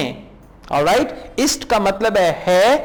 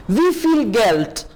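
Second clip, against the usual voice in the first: slow model reading; slower than usual. Shown as a demonstration. Slow German model phrase.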